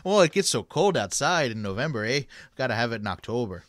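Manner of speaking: lightly put-on Canadian accent; playful Canadian accent with eh. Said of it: "That was a good Canadian accent".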